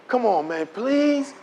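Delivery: coaxing plea rising on please; wheedling, imitated appeal; pleading. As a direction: act out a friend begging. Friend begs once more.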